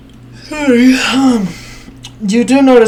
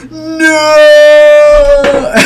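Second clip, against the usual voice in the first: high, loud, hammed-up cry of no; a joking wail of despair; mock wail; 9 semitones higher, 7 dB louder than usual. Simo mock-wailing as the player falls. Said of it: "jokingly going".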